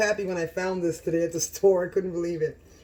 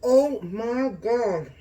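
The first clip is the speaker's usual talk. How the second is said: delighted moan; 4 semitones higher, 5 dB louder, much slower than usual. Real, not acted. First bite reaction.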